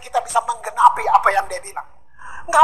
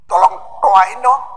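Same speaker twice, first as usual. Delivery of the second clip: slow plea; 5 dB louder, slower than usual. Retold or imitated. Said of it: "Dia bilang gini".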